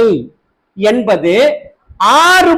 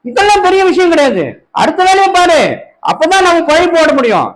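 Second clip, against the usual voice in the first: higher, lightly voiced coaxing tempter; mock deceiver coaxing; 3 semitones higher than usual. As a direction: wheedle them away from prayer. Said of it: "எப்படி வஞ்சிக்கிறாங்க?".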